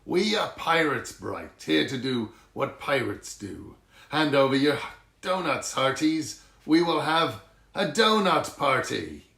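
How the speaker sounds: loud, rowdy pirate shout. Acted. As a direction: bellow demands at the shop. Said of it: "the crew shouted".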